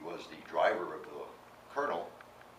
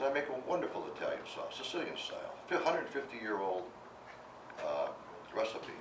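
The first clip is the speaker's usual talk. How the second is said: higher, proud sales pitch; boastful brag; 3 semitones higher than usual. Retold or imitated. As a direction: brag to impress the colonel. Boasting to impress the colonel.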